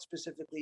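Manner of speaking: "specifically" set apart and carefully articulated; stress on specifically. Real, not acted. Speaker advising helpers to get detailed information, stress on "specifically". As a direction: put real stress on the word "specifically". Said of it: "real, real stress on that word specifically".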